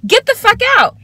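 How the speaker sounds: high, loud furious shout; furious shout at the lingering man; angry yelling. Retold or imitated. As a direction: let him have it. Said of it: "I'm like".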